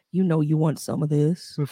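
joking put-on deep voice. Friends joke about walking around with a deep voice; mock deep voice. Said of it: "Mufasa, is that you? Darth Vader?".

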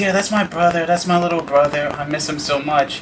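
usual speaking voice

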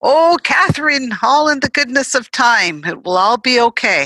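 thick put-on Jamaican accent. Recalling a neighbor's reassurance, the speaker quotes her: imitating strong Jamaican accent. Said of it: "this Jamaican woman with her strong accent".

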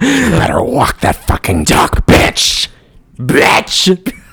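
high-pitched put-on demon voice, taunting. Joking about a horror movie demon line: imitating a movie demon. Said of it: "That's what the demon said".

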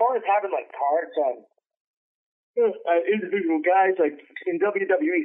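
yawning while talking. Mid-conversation about wrestling coverage, yawning while talking. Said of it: "sorry, I'm yawning".

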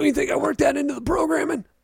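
voice pushed up very high in pitch. Correcting another speaker's quote by acting out what he actually says, imitating him. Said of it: "You tell me if that was a good impression".

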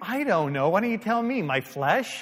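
loud, swooping, eager and worked up. Speaker retells answering a gentle questioner about their impatience; retelling an excited reply. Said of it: "I'm getting all excited".

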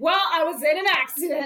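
really loud. Retelling an answer to someone who said you're late: retelling saying it really loud. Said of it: "really loud".

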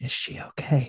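hushed whisper under the breath. Recalling asking his wife something while recording, retelling a whisper. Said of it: "I whispered to her".

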